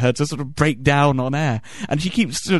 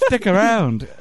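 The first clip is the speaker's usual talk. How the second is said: high, chirpy parody TV greeting; mock breakfast-show host; 6 semitones higher, slower than usual. Host announcing the beating of innocents, mock cheeriness. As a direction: open the show with hammed-up cheer.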